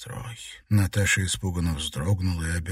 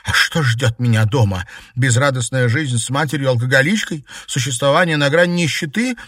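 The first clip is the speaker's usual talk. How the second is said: bitter outburst; 6 semitones higher, 6 dB louder than usual. Acted. Sister's bitter outburst at brother.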